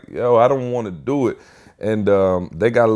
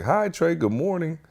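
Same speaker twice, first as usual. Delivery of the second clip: cafeteria lady greeting; 8 semitones higher, 5 dB quieter than usual. Retold or imitated.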